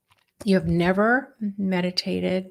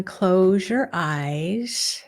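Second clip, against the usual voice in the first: guided meditation. Real, not acted. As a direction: gently lead listeners inward, with long pauses.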